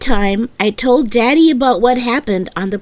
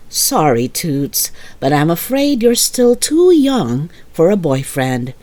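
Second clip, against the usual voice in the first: lower, kindly voice; amused mother; 6 semitones lower than usual. Acted. Mother gently telling her daughter she is still too young, lower.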